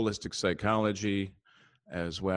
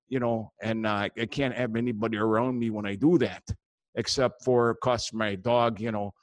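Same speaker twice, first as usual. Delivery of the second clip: folksy upper-Midwest Wisconsin character; thick Wisconsin up-north accent. Acted. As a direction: ramble like a Wisconsin fishing buddy. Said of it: "I got a guy up there in, uh, Wisconsin".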